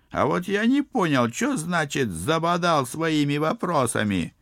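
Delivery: high, loud bickering peasants; villager voices. Acted. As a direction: squabble like rowdy village folk. Crowd of villagers squabbling.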